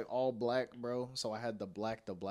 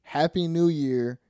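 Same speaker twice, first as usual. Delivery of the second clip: smooth pickup line; 2 semitones lower, slower than usual. Retold or imitated. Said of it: "all I said was".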